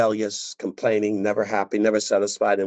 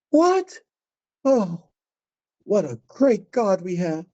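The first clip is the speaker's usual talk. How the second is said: mock delight; 10 semitones higher, slower than usual.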